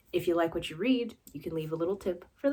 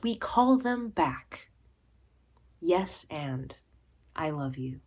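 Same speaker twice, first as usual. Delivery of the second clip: deliberate recital, swelling then hushed at the close; poetry reading; 3 dB louder than usual. Acted. Poet addressing a beloved improv partner, deliberate recital. Reads own poem.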